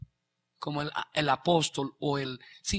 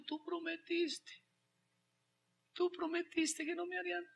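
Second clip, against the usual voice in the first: put-on crying child; 11 semitones higher, 8 dB quieter than usual.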